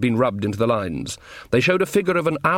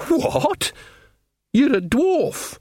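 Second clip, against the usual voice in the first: much higher, slow disbelief; incredulous; 13 semitones higher, much slower than usual. Acted. Nanny amazed the dwarf fears caves, high incredulous. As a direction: squeak it out in disbelief.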